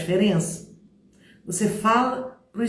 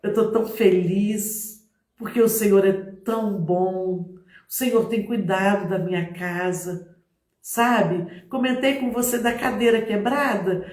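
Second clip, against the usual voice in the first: really mean the happiness; genuinely happy testimony; sincere joy. Shown as a demonstration. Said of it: "Ou se eu falo assim".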